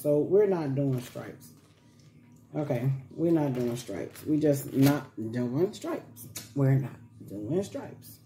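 slow, low repeated no stripes; slow insistence. Real, not acted. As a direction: drag it out firmly.

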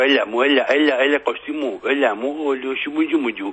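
mocking southern accent, syllables run into babble. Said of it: "αυτή η προφορά". (κοροϊδευτική νότια προφορά που γίνεται ακατάληπτη)

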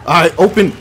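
desperate yelling at a stuck door; terrified horror victim. Real, not acted. Frantic at a door while chased.

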